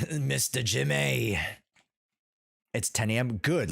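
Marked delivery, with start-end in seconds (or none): 0.1-1.4 slow, stretched playful call; playful drawn-out name. Pretend. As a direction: draw the name out in fun.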